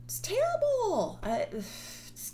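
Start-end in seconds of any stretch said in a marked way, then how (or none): 0.0-1.2 high, loud burst of dismay; exclaimed. Real, not acted. Speaker scolding self-styled empaths, high loud exclamation. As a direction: blurt it out, much higher and louder.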